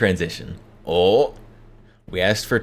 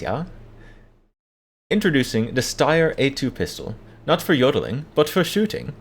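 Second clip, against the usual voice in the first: mock Austrian yodeler's pitch; exaggerated Austrian accent; 4 semitones higher than usual. Yodeler introducing a pistol in a skit, exaggerated Austrian accent. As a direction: lay on a hammy Austrian accent. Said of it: "an exaggerated Austrian accent".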